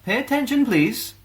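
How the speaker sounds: high, loud teacher voice calling out a pupil. A narrator's reading. Teacher calling out Alessa for not listening. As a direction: snap a dreamy pupil back. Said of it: "called Missus Moon".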